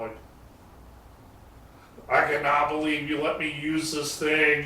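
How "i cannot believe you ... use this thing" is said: imitating awestruck young guys, high and loud; retold freaking out. Young builders learn the tool's history, imitated freaking out. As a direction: gush loudly in mock disbelief. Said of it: "freaking out".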